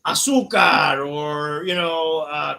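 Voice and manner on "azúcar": excited shout. Retold or imitated. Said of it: "somebody saying".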